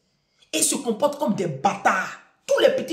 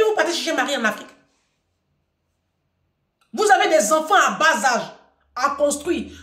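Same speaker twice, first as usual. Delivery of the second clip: scolding; 6 semitones higher, 5 dB louder than usual. Real, not acted. Scolding diaspora mothers.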